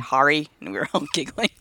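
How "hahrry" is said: "Harry" as HAH-ree, Nova Scotian; imitated Nova Scotian accent. Recalling a school typing video, imitated Nova Scotian accent. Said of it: "had a really strong Nova Scotian accent".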